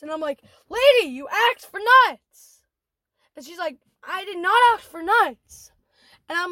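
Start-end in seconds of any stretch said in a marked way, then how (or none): 0.7-2.6 louder, higher retold retort; exasperated insistence. Manager argues with customer over nuts, exasperated. 4.1-5.7 stressed NOT in "did not ask"; retold emphatic denial. Customer denies to manager she ordered nuts, "not" stressed.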